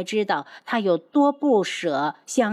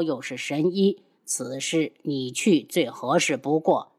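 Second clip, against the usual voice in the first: lower, composed voices; low calm elder; 4 semitones lower than usual. Acted. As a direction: speak low and measured. Master orders healer, low voice.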